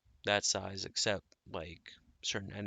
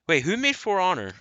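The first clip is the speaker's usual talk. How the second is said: surprised; 10 semitones higher, 10 dB louder than usual. Real, not acted. Sudden realization mid-rant.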